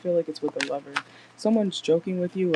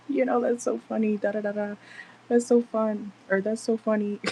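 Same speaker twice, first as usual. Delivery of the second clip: higher, sing-song fawning voice; gushing flirty laugh-along; 5 semitones higher than usual. Pretend. Laughing along at the favorite's joke, pitched up and gushing. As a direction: gush sweetly at a crush's joke. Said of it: "you'd probably be like".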